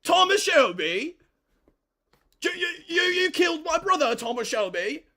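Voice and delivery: high, loud hammed-up British shout; mock British accent. Streamer acting a Peaky Blinders scene, mock British yell. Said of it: "I'm sick to British accent".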